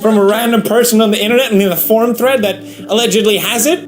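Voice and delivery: high, hurried disbelief; incredulous. Acted. Baffled at asking forum strangers for bios, high incredulity. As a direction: rattle it off as if appalled.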